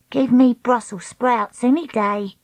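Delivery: Treacle voice. Acted. Treacle's voice in the story.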